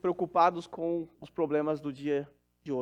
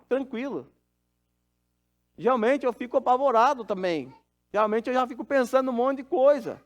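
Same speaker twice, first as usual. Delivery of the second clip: raised, higher, louder preaching voice; building pulpit fervour as he tells of his calm; fervent preaching; 6 semitones higher, 3 dB louder than usual. Acted. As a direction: testify with lifted conviction.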